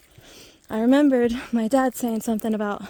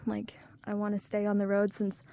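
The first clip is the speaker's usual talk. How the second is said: whispering; 5 dB quieter than usual. Real, not acted. Drops into a whisper.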